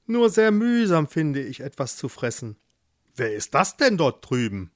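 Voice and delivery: lightly voiced mole talking to himself; a hint of a mole character; grumbling mole. Mole digging in dry earth, lightly voiced grumble.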